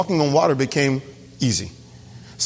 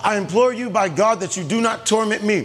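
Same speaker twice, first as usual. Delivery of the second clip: raised pitch, mildly cried-out plea; loud crying out; 3 semitones higher than usual. Retold or imitated. Demoniac pleads with Jesus not to torment him, mild cry. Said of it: "cried out with a loud voice".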